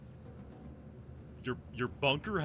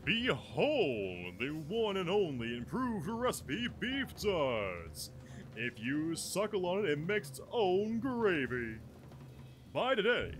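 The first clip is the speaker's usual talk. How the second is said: hammed-up TV commercial pitch; ad announcer; 3 semitones higher, slower than usual. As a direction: sell it like a cheesy ad. S1 parodies a candy commercial.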